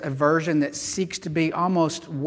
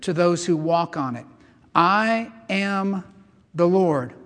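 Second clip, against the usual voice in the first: measured, emphatic Bible reading with pauses; scripture reading; 3 dB louder than usual. A narrator's reading. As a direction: proclaim the verse phrase by phrase. Reads scripture aloud to congregation.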